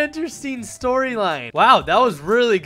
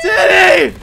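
loud, high drawn-out name call; mock-desperate yell; 11 semitones higher, 12 dB louder than usual. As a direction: holler it in hammed-up alarm. Crying out for Teddy in skit.

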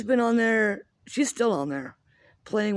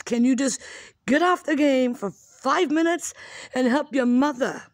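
high, louder exasperated call through the wall; 5 semitones higher, 3 dB louder than usual. Retold or imitated. Mom calling to her gaming daughter for help, exasperated loud call. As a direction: plead loudly for your kid to come help.

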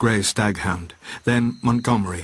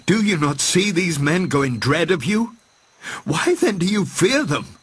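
high, urgent rallying cry; shouting; 8 semitones higher than usual. A narrator's reading. Prendick shouting past Moreau to the beast men. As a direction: rouse the beast men against their masters. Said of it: "shouting past him to the beast men".

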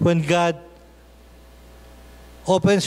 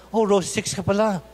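teasing husband; 3 semitones higher than usual. Retold or imitated. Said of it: "sabi niya".

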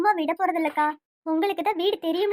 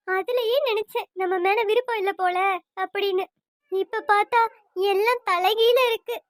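tearful. Acted. Daughter confiding her long-held suspicion to her parents, tearful. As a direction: pour out the hurt through tears. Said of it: "அழாதம்மா".

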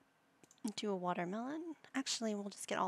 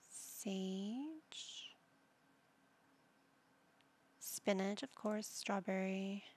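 whisper; 3 dB quieter, much slower than usual. Real, not acted. Muttering shopping choices.

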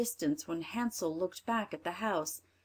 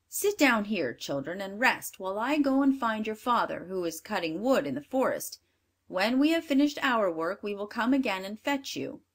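louder, bossy stepmother; a hint of a cruel stepmother; wicked stepmother; 4 dB louder than usual. Stepmother deceives children.

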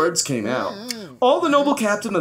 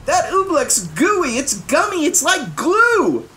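put-on high, urgent boy's voice; a high, slowed urgent cry; urgent alarm; 14 semitones higher than usual. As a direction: plead urgently about the trapped robin. Bartholomew urgently describes the robin.

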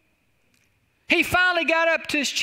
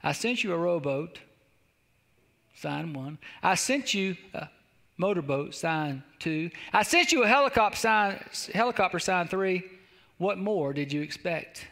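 the Lord replying; 5 semitones lower than usual. Acted. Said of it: "To this, the Lord replied".

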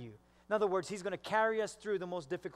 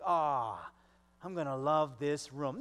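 lower-pitched, put-on cool guy; playing it cool; 4 semitones lower than usual. Husband walking into the new house, playing it cool. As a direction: keep the delight under wraps. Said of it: "playing it cool".

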